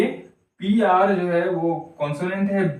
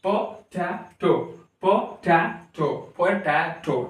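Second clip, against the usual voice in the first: पोटैटो in three separate beats, po, ta, to; a small gap after every syllable of पोटैटो; much slower than usual. Shown as a demonstration. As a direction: break up each पोटैटो slowly. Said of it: "तो इसको आप pronounce करिए".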